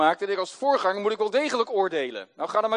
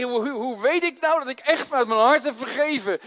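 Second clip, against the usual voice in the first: anxious asking; 4 semitones higher than usual. Retold or imitated. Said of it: "Ik zeg".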